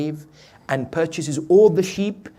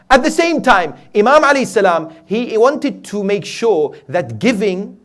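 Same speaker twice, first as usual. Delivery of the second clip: raised, insistent sermon voice; emphatic preaching; 6 semitones higher, 9 dB louder than usual. Real, not acted. Preacher tells congregation giving is powerful, emphatic preaching. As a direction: press the point home, louder and higher.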